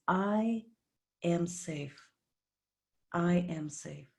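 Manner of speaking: softly spoken, with unhurried pauses; calm affirmation. Shown as a demonstration. Meditation host gives listeners the base chakra affirmation, calm and soft. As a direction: let each phrase settle quietly.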